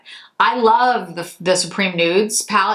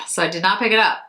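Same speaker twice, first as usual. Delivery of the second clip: a proud little whisper; whispered aside; faster than usual. Real, not acted. To her viewers, whispering that she resisted buying. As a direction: whisper it like a small secret win.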